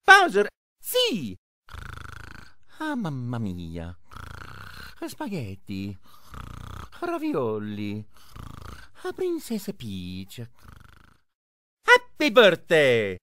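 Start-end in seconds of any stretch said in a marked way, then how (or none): 2.8-10.4 low, soft dreamy murmur; sleepy mumble. Acted. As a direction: mumble the words half asleep. Mario dozing, dreamy murmurs.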